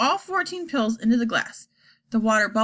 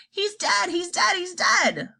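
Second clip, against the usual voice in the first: wail of anguish; 9 semitones higher, slower than usual. Acted. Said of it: "she let out a great wail".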